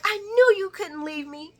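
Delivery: high swooning line; relieved Lucy. Retold or imitated. Lucy thinking Martin came back, high and swooning. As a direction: sigh with relief.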